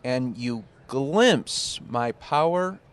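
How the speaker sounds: slow, solemn scripture reading; drawn-out reverent reading; mock biblical speech.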